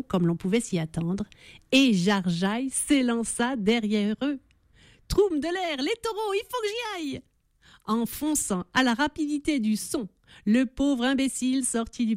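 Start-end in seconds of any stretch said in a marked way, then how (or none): 5.1-7.2 excited rush. A narrator's reading. Jarjaille rushes after the bulls.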